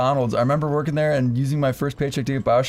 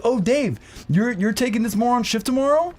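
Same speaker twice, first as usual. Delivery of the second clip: mock manager; 9 semitones higher than usual. Mocking manager catching him.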